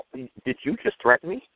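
slow, smiling dare; mock-sweet challenge to a county worker. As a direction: ask it back slowly with a grin. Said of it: "I just smile and go".

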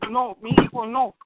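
slow hammed-up wail of a mother; mock crying mother. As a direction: play the sobbing mother, slow. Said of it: "Tu madre saldrá en las noticias llorando". (madre llorando, lento y exagerado)

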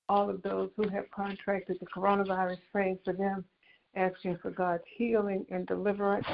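prayer. Acted. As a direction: lift them up in prayer, gently. Resumes the prayer call.

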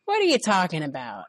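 lightly acted innocent surprise; mock surprise. Manager feigning innocence to the girl, mock surprise. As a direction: play dumb, feigning shock. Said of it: "he said, acting surprised".

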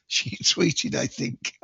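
giggling through the words, then a high laugh; laughing at a slip. Real, not acted. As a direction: break up laughing at your own mistake.

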